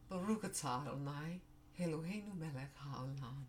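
Hebrew blessing through tears, voice breaking; tearful blessing. Real, not acted. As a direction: pray the words while fighting back crying. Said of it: "I didn't mean to cry over there".

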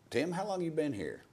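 lightly voiced old-timer, pitched high; high-pitched mock question from a colleague; imitated old-timer. Quotes an old-timer's question to him.

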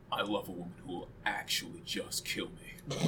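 breathy hushed whisper. Pretend. Giving in to a friend's dare, whispered confession. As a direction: barely breathe it, no voice at all. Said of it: "you're just gonna leave me hanging".

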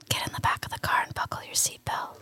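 unvoiced ASMR whisper. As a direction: whisper like a cringey ASMR host. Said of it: "like a terrible A S M R".

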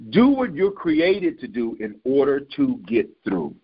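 slow, deliberate preaching; measured, weighty restatement; emphatic repeat. Real, not acted. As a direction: spell it out slowly for the congregation. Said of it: "I'm gonna say that again".

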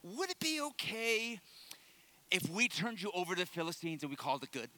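hammed-up timid asking, softening on the question; tentative, mock-polite comic voice; comically meek request. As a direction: play a hesitant crowd nervously asking a favor. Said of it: "read it in the most hilarious voice".

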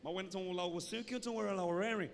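Yoruba line with a joking English accent; mock-English rendering of a Yoruba saying; mock English version. Shown as a demonstration. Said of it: "Interpret in English".

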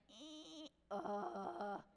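small whiny "eh", then a groan. Retold or imitated. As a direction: mimic a child's grumbling noises. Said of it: "if the tone is like".

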